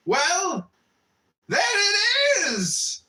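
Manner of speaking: very high, slow mocking laugh-shout. Friend throwing a pillow, laughing. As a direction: tease him through laughter. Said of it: "said the other, laughing".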